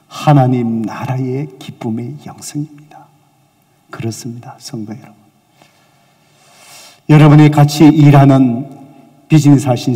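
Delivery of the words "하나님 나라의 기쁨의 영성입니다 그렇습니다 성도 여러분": hushed whisper. Real, not acted. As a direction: lean in and whisper the point. Preacher's hushed key point.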